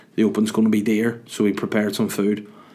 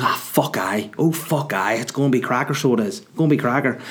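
mock eager driver; 3 semitones higher than usual. Sammy the taxi driver voiced.

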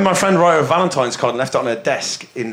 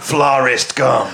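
movie trailer voice; slower than usual. Pretend. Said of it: "answer after that in the movie trailer voice".

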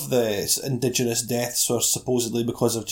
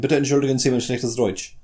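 German accent. Shown as a demonstration. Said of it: "my German accent".

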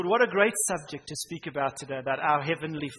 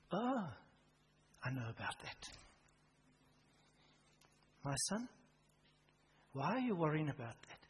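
gentle voice of the Lord; 10 dB quieter than usual. Retold or imitated. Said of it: "the Lord is saying".

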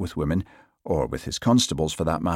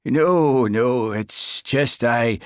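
loud, higher, halting Highland stammer; flustered Highland accent; 6 semitones higher, 5 dB louder, slower than usual. A narrator's reading. Sergeant caught staring at his constable, flustered Highland accent. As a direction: stumble over it in a thick Highland accent. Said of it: "His Highland accent always grew more pronounced when he was flustered".

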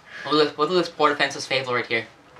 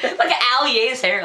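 laughing through the words; 8 semitones higher, 4 dB louder than usual. Real, not acted. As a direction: speak while giggling. Laughing while talking.

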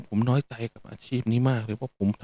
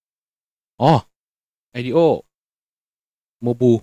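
reading aloud; 6 dB louder, much slower than usual. Retold or imitated. Reading condo sign aloud.

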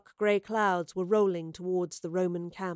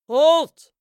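very loud, high shouted command; distant shout; 7 semitones higher, 14 dB louder than usual. A narrator's reading. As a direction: bellow an order from far off. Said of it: "came a voice in the distance".

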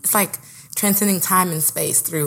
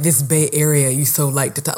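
mock drawl; 3 semitones lower than usual. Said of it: "Why did he say it like that?".

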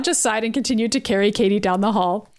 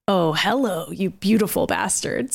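ecstatically; 3 semitones lower, slower than usual. Acted. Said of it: "Sinister said ecstatically".

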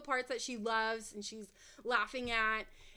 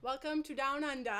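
put-on Australian accent. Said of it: "get ready for Carly's Australian accent".

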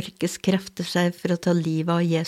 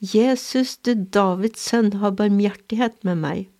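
a blind beggar's mild mock cry for mercy, pitched up on the name; crying out louder. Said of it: "ropte han bare enda høyere".

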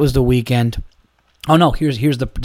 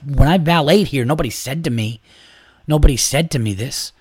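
retold angry rant. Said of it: "I was like".

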